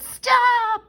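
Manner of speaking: high, loud parental yell; yelled stop. Acted. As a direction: shout it to halt the child. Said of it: "her parents yelled".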